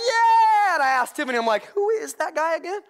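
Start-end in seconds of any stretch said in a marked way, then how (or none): 0.1-0.8 high, very loud yell; hollered, all-out cheer; excited fan cheer. Retold or imitated. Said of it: "I get into it too". 1.7-2.8 high, hyped-up questioning; excited bafflement. Retold or imitated. Retells his excited questions at game.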